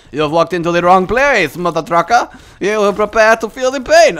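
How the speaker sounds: a hint of a loud menacing tough guy. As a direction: threaten the intruder, loud and gruff. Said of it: "midgets are speaking like that".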